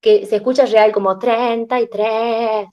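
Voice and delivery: bleating treinta y tres, like a goat; goat voice demo. Shown as a demonstration. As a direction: quaver the words like a bleat. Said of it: "Perdón la interpretación".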